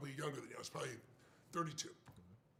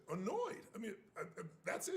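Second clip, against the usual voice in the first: incredulous echo; 2 semitones higher than usual. Retold or imitated. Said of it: "I said".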